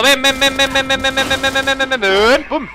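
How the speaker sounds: high teasing come-here chant; taunting sing-song. Real, not acted. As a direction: lure him in, mocking. Taunting an enemy soldier in-game. (cantinela burlona)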